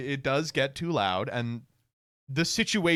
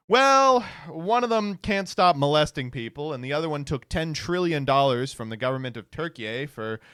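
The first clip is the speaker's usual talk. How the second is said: mock debate answer; 4 dB louder than usual. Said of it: "It's really funny to be like".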